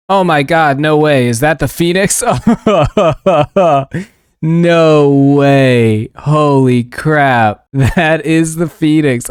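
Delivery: real excited shriek with laughter; can't believe the rare drop; shrieking jackpot winner. Real, not acted. Rare pet drop reaction.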